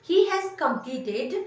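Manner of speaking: each word drawn out very slowly; slow dictation. Shown as a demonstration. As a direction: model it slowly for learners. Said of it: "तो हम बोलेंगे".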